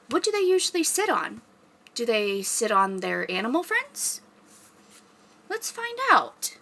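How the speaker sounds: put-on bright, lively children's librarian voice; story time host. Librarian welcoming kids to story time, upbeat and bright. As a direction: greet the kids with big storytime energy.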